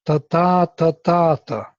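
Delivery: five rhythm syllables, stress on every second ta; ta ta ta ta ta, weak then strong each time; iambic rhythm. Shown as a demonstration. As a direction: tap out the iambic beat on ta. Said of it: "it has a iambic, uh, structure".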